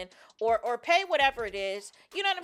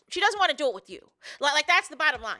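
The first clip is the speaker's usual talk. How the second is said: emphatic insisting; 4 semitones higher, 4 dB louder than usual. Real, not acted. Insisting on bottom line.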